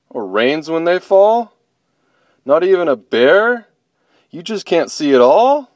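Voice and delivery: disbelieving bear. Acted. Bobo asking blind bunny what she can't see, amazed. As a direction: let amazement grow with each question.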